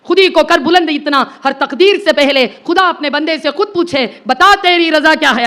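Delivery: slow, measured Urdu verse; poetry recitation. Acted. Speaker reciting Iqbal to an audience, poetry recitation. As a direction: recite the couplet slowly, savouring each phrase.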